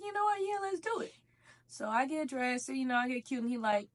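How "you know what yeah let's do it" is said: mock boyfriend voice. Boyfriend agreeing voiced in story.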